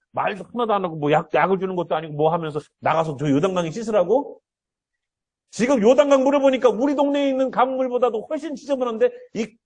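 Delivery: a proud man's offended outburst; angry general. Retold or imitated. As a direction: huff and fume like an insulted general who expected a bow. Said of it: "화가 이입히 나가지고".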